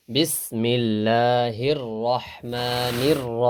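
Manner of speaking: drawn-out Quranic chant of the words; slow recitation. Shown as a demonstration. Teacher chanting Bismillah slowly for students. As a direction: recite slowly, stretching each vowel. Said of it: "Quran recitation demo".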